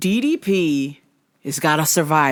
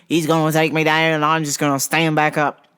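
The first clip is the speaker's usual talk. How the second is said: lightly mocking South African accent; silly South African accent; 3 semitones lower than usual. Host mimicking fighter's game plan, silly South African accent. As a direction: quote him in a goofy South African accent. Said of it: "in my silly South African voice".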